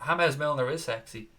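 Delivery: light Spanish touch, James said as "Hamez"; mildly put-on Spanish pronunciation of James; half-hearted Spanish accent. Streamer obliging a viewer's request, half-hearted Spanish accent. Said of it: "in a Spanish voice".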